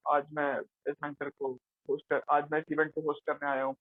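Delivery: lightly voiced static anchor, pitched low; stiff anchor demo. Shown as a demonstration. Coach showing an anchor talking while just standing, low lifeless imitation. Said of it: "या सिर्फ ऐसे खड़े-खड़े बात कर ले".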